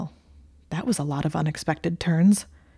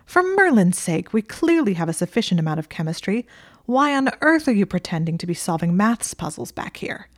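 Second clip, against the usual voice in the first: despairing; 3 semitones higher than usual. Acted.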